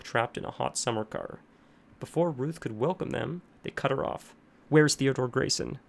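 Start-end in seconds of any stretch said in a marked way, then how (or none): 4.7-5.8 loud urgent question; urgent demand. A narrator's reading. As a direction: demand it out of breath. Panting officers burst in.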